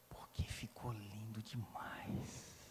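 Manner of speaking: slow, low whisper of a flatterer; seductive whisper. Retold or imitated. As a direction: drag out the compliment in a hush. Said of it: "e fala assim".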